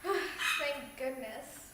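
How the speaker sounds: relieved sigh. Acted. Host relieved lecture ended.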